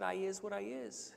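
lightly voiced joke quote; joke punchline. Black man's punchline to the white man, lightly voiced. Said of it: "he would have said".

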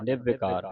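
ਨਿਰਵਿਕਾਰ as one unbroken word; read as one. Shown as a demonstration. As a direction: join ਨਿਰਵਿਕਾਰ with no gap. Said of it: "ਇਹ ਇਕੱਠਾ ਪੜਨਾ ਹੈ". (ਨਿਰਵਿਕਾਰ ਇਕੱਠਾ)

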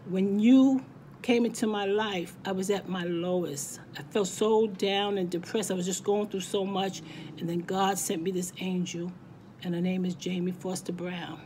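real emotion, voice cracking a little; holding back tears while thanking her. Real, not acted. To her best friend on her birthday, voice cracking with emotion. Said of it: "my voice is cracking".

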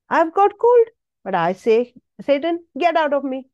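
preacher commanding Satan to leave; rebuking Satan. Retold or imitated. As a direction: cast the devil out of your throat. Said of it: "preacher rebuking Satan".

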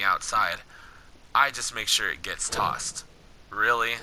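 low, measured game-dialogue read; story dialogue reading. Acted. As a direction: read the wasteland encounter steadily, below your chat pitch. Reads Corbin's game dialogue.

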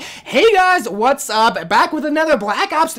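high, loud video intro; commentary voice. Shown as a demonstration. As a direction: greet viewers in an exaggerated commentator voice. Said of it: "I don't talk my commentary voice".

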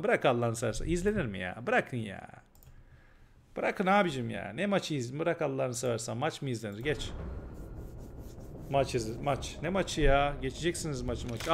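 low, soft, disgusted muttering; fed-up resignation. Real, not acted. Streamer disgusted with the Beşiktaş match, quiet fed-up grumbling. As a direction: give up on it completely, under your breath.

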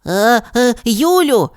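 startled cry rising high; alarmed as his feet leave the ground; a scared boy calling her name; voice trembling. Acted. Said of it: "Його голос здригнув".

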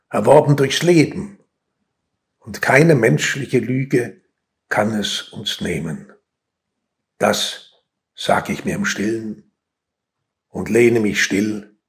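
subdued verse with long pauses; measured, understated poem reading; poetry recitation. Acted. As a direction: recite in short, separate phrases.

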